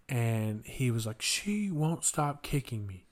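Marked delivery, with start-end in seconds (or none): 1.2-3.0 slow mock whine, words dragged out; retold crying complaint. Crying boy tattles on the girl, slow imitated whine. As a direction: imitate a kid's drawn-out grievance.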